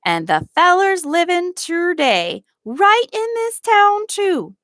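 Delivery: lightly voiced old man, sly; an old servant hinting at a secret. A narrator's reading. Old Tom teasing Nancy, a lightly voiced old man.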